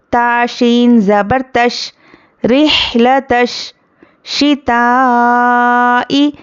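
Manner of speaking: slow chanted tilawat; Quran recitation. Shown as a demonstration. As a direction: recite slowly with long vowels. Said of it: "teacher spells and recites". (धीमी तिलावत)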